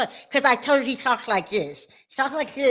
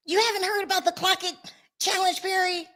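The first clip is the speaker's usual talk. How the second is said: mock question; 7 semitones higher than usual.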